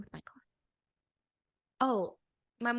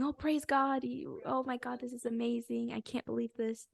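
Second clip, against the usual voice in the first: higher, lightly re-enacted gushing; retold elation; 4 semitones higher than usual. Two friends celebrating the acceptance, retold elation.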